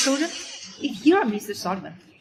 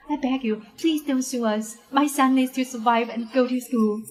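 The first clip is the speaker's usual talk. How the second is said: crying plea. Acted. Mother begs not to be sued.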